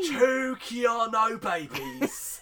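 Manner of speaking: loud, high, very drawn-out mock bellow; hammed-up proclamation. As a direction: proclaim it slowly like a soap villain. Hammed-up impression of soap character.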